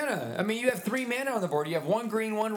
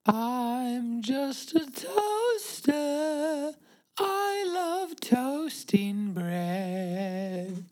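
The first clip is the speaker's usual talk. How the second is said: slow toaster voice; much slower than usual. Acted. Playing a toaster.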